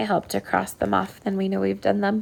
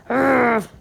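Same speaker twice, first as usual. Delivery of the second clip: short playful growl, a bit louder; mock growl; 3 semitones higher, 4 dB louder than usual. Shown as a demonstration. Teacher to class, showing a mad noise: mock growl. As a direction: growl as if you were mad. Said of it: "that was more of a growl".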